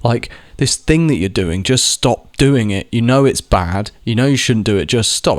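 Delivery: mildly exasperated, leaning on STOP; insistent retold scolding; frustrated plea. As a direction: act out fed-up pleading, a touch heated. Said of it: "you get so angry".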